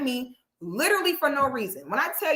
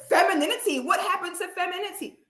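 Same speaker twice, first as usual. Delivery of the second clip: mocking mimic; 6 semitones higher, faster than usual. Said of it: "that girl would say".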